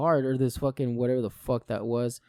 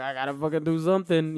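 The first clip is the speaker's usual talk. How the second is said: plain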